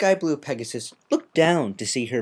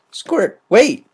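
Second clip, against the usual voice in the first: loud call after her; 12 semitones higher, 11 dB louder than usual. Acted. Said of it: "Rainbow Dash said".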